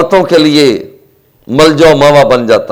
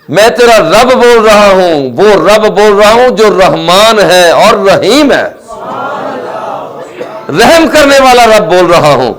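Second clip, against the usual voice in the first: voice of God; 4 semitones higher than usual. Acted. Voice of God addressing Musa. (رب کی آواز، آہستہ اور بلند)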